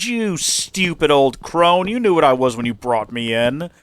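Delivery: hammed-up treacherous snake gloating; villain snake. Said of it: "And he said".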